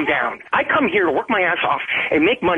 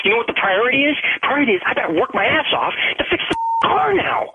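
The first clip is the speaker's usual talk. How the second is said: heated, higher-pitched retort; angry; 5 semitones higher than usual. Real, not acted. Boyfriend telling girlfriend about real priorities, angry. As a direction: hammer the point home angrily.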